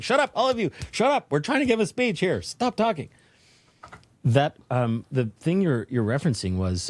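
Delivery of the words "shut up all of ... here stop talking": telling inner voices off. Retold or imitated. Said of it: "I have to be like".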